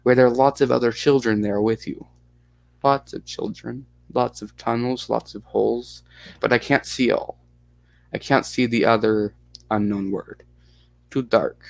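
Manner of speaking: put-on lightly Russian-accented little girl; mild Russian accent, child recounting. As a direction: answer in broken English with a Russian accent. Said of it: "you like the Russian accent".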